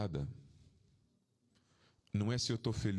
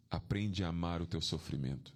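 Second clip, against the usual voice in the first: gentle, sweet advice; 7 semitones lower than usual. Retold or imitated. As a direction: tell him kindly, smiling. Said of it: "com um sorriso na cara, doce". (conselho doce, dito com um sorriso)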